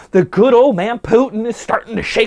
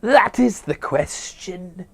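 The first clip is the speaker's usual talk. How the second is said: mock Shakespearean drama; 3 semitones higher, much slower than usual. Hamlet parody, dramatic reading.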